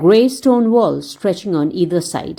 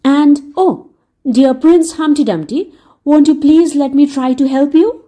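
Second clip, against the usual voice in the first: put-on a bit louder, earnest young boy; pleading boy; 5 semitones higher, 4 dB louder than usual. Dick pleading with Humpty Dumpty, earnest. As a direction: beg to be allowed to help.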